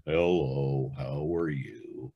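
low, slow and gloomy; Eeyore voice. Retold or imitated. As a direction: mope it out like Eeyore. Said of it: "morose, down person like Eeyore".

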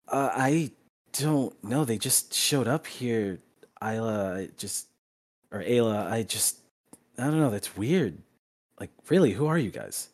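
lightly voiced puzzled boy, halting; confused boy. Boy explains the strangers to Ayla, a touch confused. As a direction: stumble through it with pauses, mildly confused. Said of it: "he's confused and concerned".

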